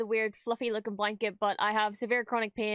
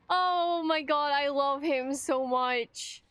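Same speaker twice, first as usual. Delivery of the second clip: adoring; 2 semitones higher, slower than usual. Real, not acted. Adoring a character.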